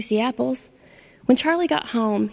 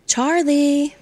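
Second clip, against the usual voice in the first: calling out; 5 semitones higher than usual. Acted. Phoebe calling out to Charlie, raised voice. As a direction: call his name across the garden. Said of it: "Phoebe called".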